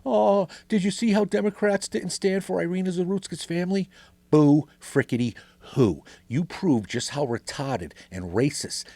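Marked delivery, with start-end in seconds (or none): 0.0-3.9 mocking online outrage. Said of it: "these maga ifbap faggots on social media".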